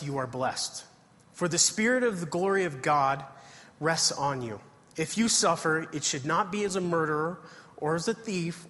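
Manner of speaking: measured, earnest Bible reading voice; scripture reading. Acted. Preacher reads First Peter aloud to the congregation. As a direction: read the verses aloud to the congregation.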